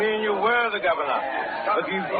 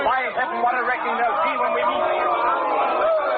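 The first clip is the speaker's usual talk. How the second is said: vengeful threat; 5 semitones higher, slower than usual. Acted. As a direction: relish every word of the coming revenge. Uncle vowing revenge on Blood.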